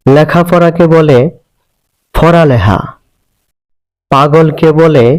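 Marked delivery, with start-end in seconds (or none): 2.1-2.8 লেখাপড়া said as ফরালেহা with f and h; Chittagong dialect pronunciation. Shown as a demonstration. Teacher showing the Chittagong form ফরালেহা. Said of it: "প ধ্বনিকে ফ উচ্চারণ".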